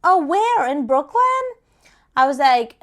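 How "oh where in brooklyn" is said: higher, louder imitation of a questioning caller; lightly voiced inquisitive caller; retold woman caller. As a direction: mimic her eager question, pitched up. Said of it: "she's like".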